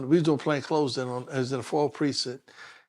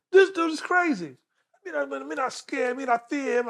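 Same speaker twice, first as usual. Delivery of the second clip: mock fearful aside; 9 semitones higher than usual. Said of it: "I said".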